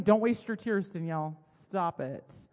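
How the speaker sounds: loud start, dropping to a firm finish; mock scolding. Imagined God telling her off for crying, mock scolding. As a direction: act out a brief telling-off.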